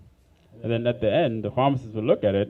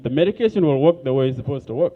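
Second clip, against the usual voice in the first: retold angry outburst. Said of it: "So I got pissed off".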